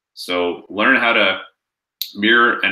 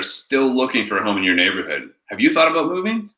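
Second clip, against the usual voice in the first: much higher, eager question; excited pitch; 4 semitones higher than usual. Shown as a demonstration. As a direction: sell it with energy. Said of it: "getting excited about that, the energy".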